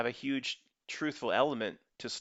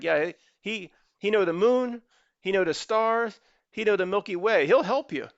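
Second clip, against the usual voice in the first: put-on old Aborigine elder; 8 semitones higher, 7 dB louder than usual. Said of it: "He's like".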